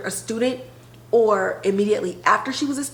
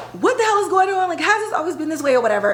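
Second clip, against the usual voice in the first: mock outrage; 7 semitones higher, faster than usual. Angry confrontation of principal.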